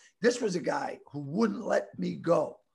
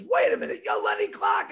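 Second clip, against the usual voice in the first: louder, acted-out exclamation; retold startled recognition; 9 semitones lower, 6 dB louder than usual. Bar worker recognises the comedian, retold startled exclamation. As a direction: blurt it like you just spotted someone famous. Barman suddenly recognises the star.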